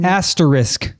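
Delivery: ASTERISK in three syllables, "AS-tuh-risk"; correct pronunciation. Shown as a demonstration. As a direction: sound the middle syllable and the final "sk". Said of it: "There's no isk in it".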